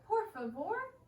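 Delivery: high, begging por favor; pleading please. Retold or imitated. Child begging parents for a puppy, high pleading. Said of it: "I ask my parents".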